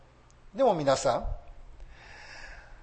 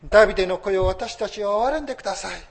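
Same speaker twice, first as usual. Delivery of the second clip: raised, louder plea for mercy; preacher re-enacting blind men's cry, higher and louder; 6 semitones higher, 8 dB louder, faster than usual. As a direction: cry out to Jesus as the blind men did. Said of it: "そう叫んだ目の見えない人々に".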